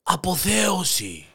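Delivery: drawn-out, high-pitched exultant call; crying out. Acted. Hare in the jungle proclaiming his ecstasy, crying out. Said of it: "Και φωνάζει".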